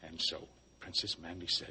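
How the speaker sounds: ordinary talk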